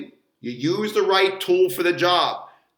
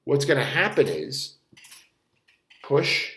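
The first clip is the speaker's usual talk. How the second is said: ordinary talk, nothing marked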